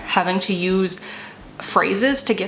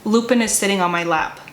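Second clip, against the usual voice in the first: dictating a sentence. Shown as a demonstration. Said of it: "But if I use it in a sentence".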